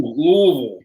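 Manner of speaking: Louisville mumbled as LUH-vul, tongue deep in the mouth; Louisville slurred to LUH-vul; marbles in mouth. Shown as a demonstration. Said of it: "everybody practice that at home".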